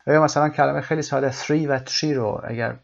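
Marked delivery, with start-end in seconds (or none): 1.3-1.7 "three" begun with a th, not a t; th sound. Shown as a demonstration. Teacher contrasting easily confused words, th sound in "three". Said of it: "صدای ث و ت رو اشتباه". 1.8-2.1 "tree" begun with a t, not a th; t sound. Shown as a demonstration. Teacher contrasting easily confused words, t sound in "tree". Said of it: "صدای ث و ت رو اشتباه".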